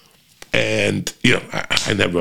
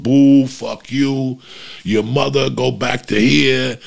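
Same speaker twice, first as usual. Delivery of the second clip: 1 mock heckling; 4 semitones higher, slower than usual. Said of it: "the things that were yelled".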